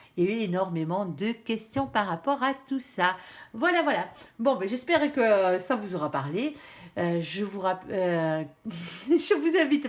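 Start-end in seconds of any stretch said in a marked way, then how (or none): 7.0-9.9 stumbling, tripping over words, fumbling restart mid-phrase. Wrapping up a video and speaking to viewers, stumbling over words. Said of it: "pardon, je bafouille".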